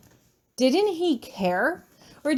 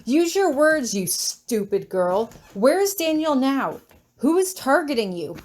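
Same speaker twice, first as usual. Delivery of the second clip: angry; 3 semitones higher than usual. Acted. Hieronymus shaking her, angry.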